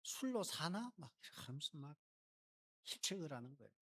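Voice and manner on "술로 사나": higher, lightly voiced scolding old priest; mock-scold her for being drunk; scolding priest Eli. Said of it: "엘리가 말하는 거죠". (약간 높게 꾸짖는 제사장 흉내)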